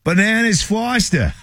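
high, slow mock-recalling voice; imitating Lou. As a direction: play Lou faking a memory. Imitating Lou's reaction.

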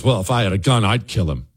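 a hint of a barroom brag; lightly voiced one-upper. Host imitating a Democrat topping the others, low and casual. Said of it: "you'll inevitably get one that says".

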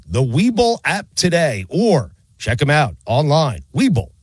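polished, evenly paced radio ad delivery; sponsor ad read. Acted. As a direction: sell it with measured emphasis on key words. Host reads a sponsor ad.

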